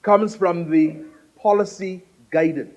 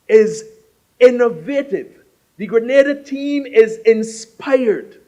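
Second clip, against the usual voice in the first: louder, punching "Grenada" with falling stress; rousing oratory; 3 semitones higher, 6 dB louder than usual. Real, not acted. Host praising the Grenada team to guests, rousing oratory. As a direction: lift the voice and land each point. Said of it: "You heard how he lifted his voice".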